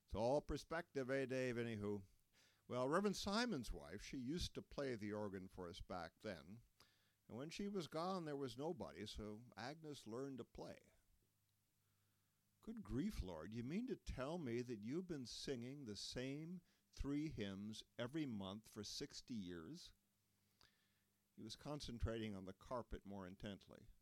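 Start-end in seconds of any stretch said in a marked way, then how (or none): 0.0-10.8 put-on higher, louder old man's voice; folksy elder chuckling it off; Lloyd's voice. Lloyd keeps explaining. 12.6-19.9 high, incredulous good grief; can't believe it; disbelieving pastor; astonished exclamation. Acted.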